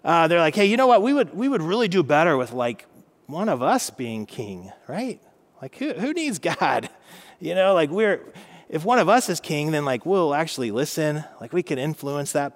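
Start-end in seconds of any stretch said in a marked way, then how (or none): 0.5-11.2 put-on a light Brooklyn accent, pitched up; loose, hammed-up Brooklyn tough-guy accent. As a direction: voice the scheming Israelites in a Brooklyn accent. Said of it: "they've got, like, a Brooklyn accent".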